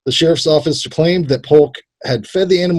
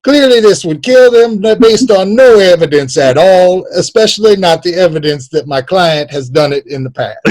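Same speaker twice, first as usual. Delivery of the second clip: higher, grandstanding courtroom voice; mock lawyer; 4 semitones higher than usual. Imagined lawyer pleading to the court in a mock orator voice. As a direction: argue to the jury like a pompous lawyer. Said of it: "that's how his lawyer sounds".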